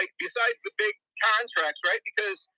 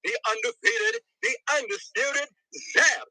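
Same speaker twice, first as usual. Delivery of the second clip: boxing ring announcer; 6 semitones higher than usual. Pretend. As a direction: build it up like a fight night MC. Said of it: "you gotta come in correct".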